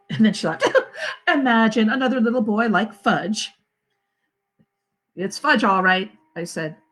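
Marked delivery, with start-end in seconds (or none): 1.0-3.5 chuckling through the line; amused laugh. Acted. Mother to father watching TV, laughing. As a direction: laugh at the thought of a second Fudge.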